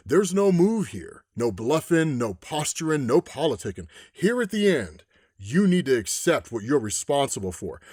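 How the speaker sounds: a hint of a calm, menacing villain; menacing man in white. Man in white warns the president.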